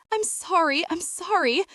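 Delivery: frightened apology. A narrator's reading. Terrified robber apologizes.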